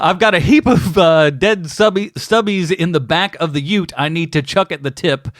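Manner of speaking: put-on amateur Aussie accent, stumbling over the slang; bad Australian accent. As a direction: try reading it like an Australian. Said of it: "help you with your terrible accent".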